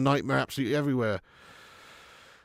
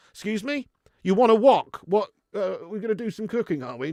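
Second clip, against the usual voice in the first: raised, puzzled query; baffled listener; 5 semitones higher, 3 dB louder than usual. Acted. Listener mishearing a Scouser, mock bafflement. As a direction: play someone who has totally misheard.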